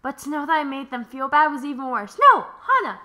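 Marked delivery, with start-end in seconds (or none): 2.3-3.0 sassy pep talk. Acted. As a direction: hype up your friend.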